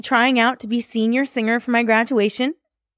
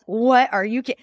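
higher, mock-outraged disbelief at the song choice; incredulous rant; 5 semitones higher than usual. Student mocks the school's song pick, in high incredulous disbelief. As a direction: pile on the questions in mock outrage, pitch jumping up.

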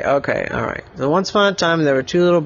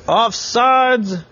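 mildly raised referee call; ref's call; 7 semitones higher than usual. Acted. Referee calling offsides on Oliver, a lightly raised call. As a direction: call it like a ref. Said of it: "ref said".

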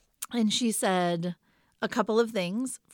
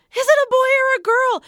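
even higher, louder repeated demand; escalating shout; 8 dB louder than usual. Retold or imitated. Mother shouting the question again at her stunned husband, louder still. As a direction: insist at full pitch, losing patience.

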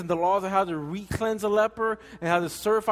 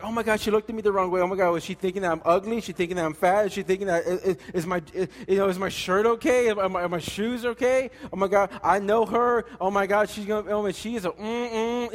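put-on anxious girl rambling. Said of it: "the girl's like".

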